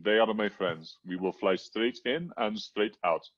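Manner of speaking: appalling mock Egyptian accent. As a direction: quote the doctor in an Egyptian accent. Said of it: "excuse my appalling Egyptian accent".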